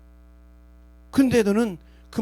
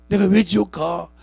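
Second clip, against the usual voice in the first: stern rebuke; 5 dB louder than usual. Acted. God answering a believer who asks why hell, stern rebuke. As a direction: scold the sinner from the throne.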